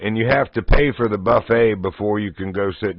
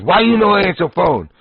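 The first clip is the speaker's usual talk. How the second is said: imitating the delivery guy's broken English, pitched higher and louder; mock accent of an annoyed delivery man; mock Chinese accent; 8 semitones higher, 4 dB louder than usual. Delivery man scolding him for not answering in a mock Chinese accent. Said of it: "He goes".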